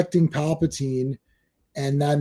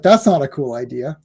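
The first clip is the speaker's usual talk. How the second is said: retold disapproval; 3 semitones lower than usual. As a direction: pitch dropped to deadpan letdown. Retells turning against the idea.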